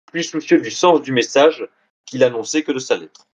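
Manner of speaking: measured, articulated read-aloud of a scholarly blurb; formal reading with lifted phrase openings; reading a quotation aloud. Acted. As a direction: read the book's back cover out to an audience. Resumes reading the back cover.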